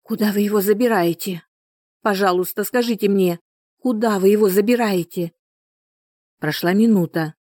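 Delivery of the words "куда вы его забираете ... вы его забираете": high, shaky frightened plea; trembling voice. Acted. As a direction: ask with a trembling voice. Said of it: "дрожащий голос матери".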